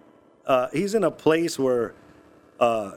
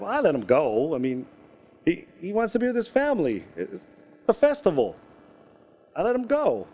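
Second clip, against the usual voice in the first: pleading son; 4 semitones higher than usual. Retold or imitated. Son pleads with angry father.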